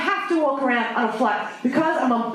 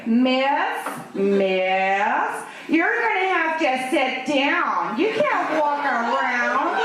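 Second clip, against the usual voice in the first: put-on a jokey American flight attendant accent, slowed down; mock American accent; 2 semitones lower, much slower than usual. Comedian imitating an American flight attendant, mock American accent. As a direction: play it as a snotty American cabin crew accent. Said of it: "I can only do an American accent".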